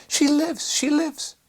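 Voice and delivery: high, loud joyful cry. A narrator's reading. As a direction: shout it out in overjoyed relief. Nurse rejoicing the baby lives.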